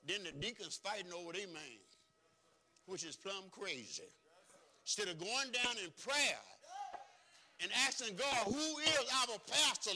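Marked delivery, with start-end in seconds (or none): 4.8-9.9 building from high to a loud, slow cry; rising preaching cry. Acted. Preacher crying out to God for a pastor, building loud. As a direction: climb into the plea for a pastor.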